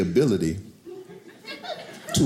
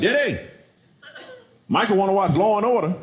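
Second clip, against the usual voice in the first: put-on little girl; 9 semitones higher than usual. Daughter relaying her brother's TV wish, childlike. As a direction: play the eager little daughter. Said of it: "My daughter's like".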